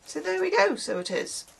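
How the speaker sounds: high, falling Irish singsong; lyrical Irish lilt. Shown as a demonstration. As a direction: lightly mimic a lyrical Irish accent. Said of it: "'cause Irish is very lyrical".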